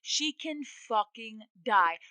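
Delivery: loud, slow, emphatic argument; heated insistence. Real, not acted. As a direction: hammer the point home loudly. Heated warning that she could die.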